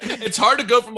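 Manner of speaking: talking through a laugh. Real, not acted. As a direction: laugh the words out.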